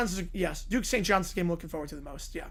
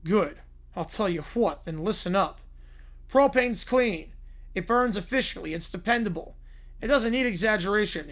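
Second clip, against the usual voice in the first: Hank Hill. Retold or imitated. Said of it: "by Hank Hill".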